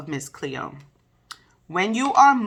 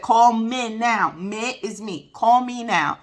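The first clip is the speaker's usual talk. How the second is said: slow, mildly imitated Jamaican accent, higher; Miss Cleo's Jamaican accent; 4 semitones higher, slower than usual. Miss Cleo's TV ad pitch to callers, in a light Jamaican accent imitation. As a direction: lightly mimic a Jamaican TV psychic urging callers. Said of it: "'cause she said".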